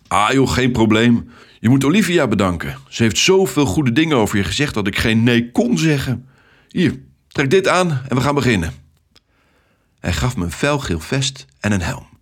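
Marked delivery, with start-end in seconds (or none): 0.1-8.7 louder, lively and energetic man; a hearty, upbeat traffic controller; cheerful Ted. Acted. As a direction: greet the new recruit with hearty enthusiasm.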